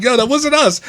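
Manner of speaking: high, loud comic denial; retold protest. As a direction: imitate a coworker protesting innocence. Retold coworker denying blame.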